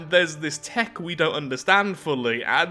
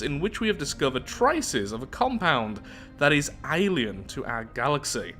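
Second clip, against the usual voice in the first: measured read-aloud narrator voice; story narration. Acted. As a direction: read the lore out evenly, like an audiobook. Reads research report aloud.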